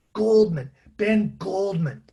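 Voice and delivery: put-on a light old Jewish grandfather accent, pleading; the speaker's voice as Joey. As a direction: gently plead in a faint old Jewish New York accent. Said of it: "sort of accent I was putting on for Joey".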